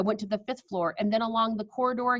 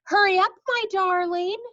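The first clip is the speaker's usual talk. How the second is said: high, loud urgent call; shouting grandmother; 10 semitones higher, 6 dB louder than usual. Acted. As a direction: call out high to hurry the boy. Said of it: "she shouted".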